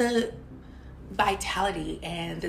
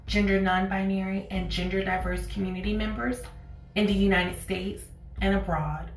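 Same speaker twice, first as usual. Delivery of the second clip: true crime narrator. Acted. Podcast intro over music.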